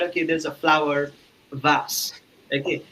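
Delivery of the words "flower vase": "vase" with a broad a, rhyming with pass; VASE as "vahs". Retold or imitated. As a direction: say "vase" as vahs, open vowel. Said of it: "somebody was saying that".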